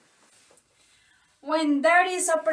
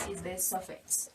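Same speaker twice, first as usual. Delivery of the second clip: echo effect; 7 semitones lower, 12 dB quieter than usual. Acted. Echoed, far off.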